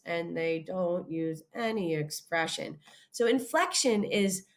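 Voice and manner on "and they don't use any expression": slow, lower, expressionless drone; a flat robotic monotone demo. Shown as a demonstration. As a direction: say it with no feeling at all. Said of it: "The Math family talks like this".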